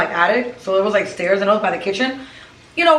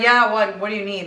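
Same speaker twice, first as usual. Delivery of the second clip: answered funny. Retold or imitated. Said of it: "Like, I just answered funny".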